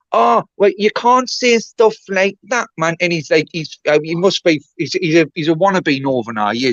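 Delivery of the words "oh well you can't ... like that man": lightly imitated objection, higher and drawn out; slow, higher-pitched mock protest; mock Chubby. Streamer retelling Chubby's complaint to the chat, lightly mocking. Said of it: "Chubby was sitting going".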